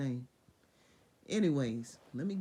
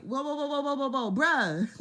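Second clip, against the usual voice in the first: higher, louder mock "whoa" calls; urgent stop; 7 semitones higher, 7 dB louder than usual. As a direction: yell to stop him just in time. God stops Abraham mid-sacrifice.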